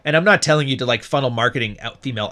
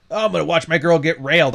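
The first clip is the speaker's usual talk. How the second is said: mocking Sneeko; 4 semitones higher than usual. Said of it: "act like, uh, Sneeko".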